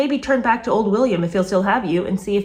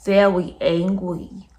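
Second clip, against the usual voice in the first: put-on baby talk; much slower than usual. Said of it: "lots of baby talk".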